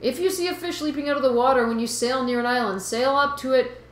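put-on Boston fish guy, accent starting to slip; slipping Boston accent. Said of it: "I'm totally losing the accent".

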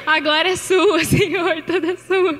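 real laughter breaking into tears; half laughing, half crying, give it all to God; laughing through tears. Real, not acted. Preacher praising God, laughing through tears. Giving glory, laughing and tearful.

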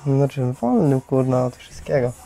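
normal talking voice

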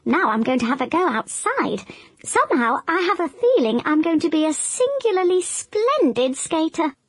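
lightly voiced smug crocodile; boastful crocodile. Crocodile about to go skating, lightly smug. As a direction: puff yourself up.

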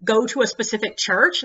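mock oblivious enthusiasm; eager clueless tourist. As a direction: chirp it out keenly. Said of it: "she's like".

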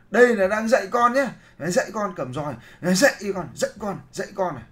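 loud, high mock scolding of a child; hammed-up angry parent yelling. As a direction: shout it like a furious parent with a cane.

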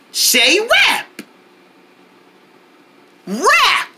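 high, bright call-and-response cheer; camp counselor cheer. Acted. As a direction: pump the kids up on every wrap. Leads kids in call-out game.

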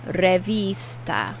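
slow "Revista", weight on the "ee" of the I; emphasize the middle syllable of "Revista"; stress on I. Shown as a demonstration. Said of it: "Notice I'm putting more emphasis on the I".

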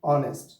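অনেস্ট begun on an O sound; vowel-first pronunciation. Shown as a demonstration. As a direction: drop the H and start অনেস্ট on O. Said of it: "ও থেকে উচ্চারণ হচ্ছে". (অনেস্ট, ও থেকে উচ্চারণ)

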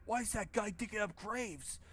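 high, lightly mocked dumb questions; mocking the game hero. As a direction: parrot the hero's pointless questions. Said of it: "this Silent Hill dialogue is on point".

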